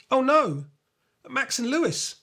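exclaiming. A narrator's reading. Kimmy realises she left her friends behind, dismayed exclaim. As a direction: gasp it out, remembering her friends. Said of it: "exclaims Kimmy".

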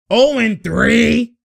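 slow, loud, drawn-out disbelief; stunned exclamation. Real, not acted. Fan watching a missed three, stunned and loud. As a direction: stretch it out in shock.

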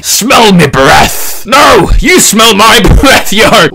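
rough go at a Scottish pirate; pirate trash talk in wobbly Scottish; mock-Scottish pirate brawler. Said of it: "Scottish? P-, pirateer".

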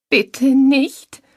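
very high, loud desperate plea; distraught high-pitched begging; sobbing, beside herself. A narrator's reading. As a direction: sob it out in panic. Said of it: "schluchzte sie völlig außer sich".

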